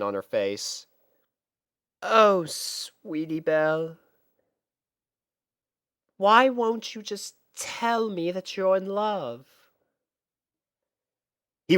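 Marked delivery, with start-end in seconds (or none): 2.0-9.5 Rarity's disappointed sigh. Acted. Rarity sighs to herself.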